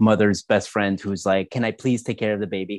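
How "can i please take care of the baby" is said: put-on pleading, begging tone. Retelling how the babysitter asked to take the baby: imitating someone begging. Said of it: "she's basically just, like, begging us".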